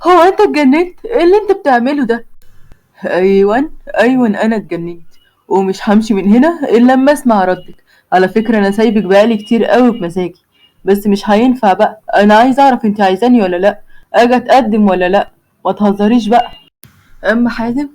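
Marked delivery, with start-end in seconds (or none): 0.0-2.2 a sudden, higher gasp of shock; startled. Acted. The girl, startled to find him on her balcony, asks in surprise. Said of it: "بتتخض جدًا". 3.1-16.5 put-on lower, stubborn young man; Hazem's voice. A young man threatens her from the next balcony, lightly lower voice.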